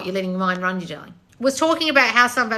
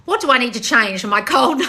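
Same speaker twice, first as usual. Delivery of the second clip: reading aloud, cracking up; laughing through the question; can't stop laughing; 2 semitones higher, 5 dB louder than usual. Real, not acted. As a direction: read it until laughter breaks it off. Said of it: "I can't stop laughing".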